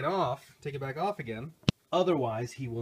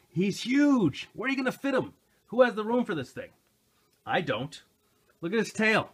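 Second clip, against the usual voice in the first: excited gushing; 9 semitones higher, 6 dB louder than usual. Real, not acted. Gushing over the giant toy.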